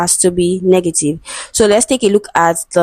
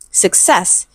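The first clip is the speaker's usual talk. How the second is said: "success" with the weight on its second syllable; stress on second syllable; 4 dB quieter than usual. Shown as a demonstration. Teacher models the word for students, "success" stressed on second syllable. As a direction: say "success" stressing the final -cess. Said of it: "it is stressed on the second syllable".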